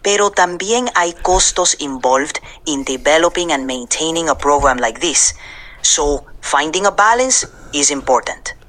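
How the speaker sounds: put-on Puerto Rican accent with Spanglish; easygoing Puerto Rican accent, Spanish mixed in. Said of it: "I'll speak with a Puerto Rican accent and mix in some Spanglish".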